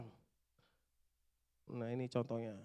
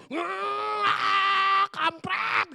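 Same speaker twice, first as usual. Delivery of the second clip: retold yell; 10 semitones higher, 7 dB louder, much slower than usual. Retold yelling while speeding home.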